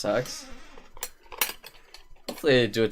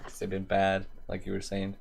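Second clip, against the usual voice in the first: stuffy nose, can't breathe through it; blocked nose; 2 semitones lower, 5 dB quieter than usual. Real, not acted. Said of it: "I'm, like, talking like this now".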